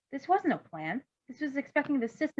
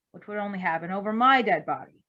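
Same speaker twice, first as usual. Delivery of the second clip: dry; 6 dB louder than usual. Acted. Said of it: "Bluebird said dryly".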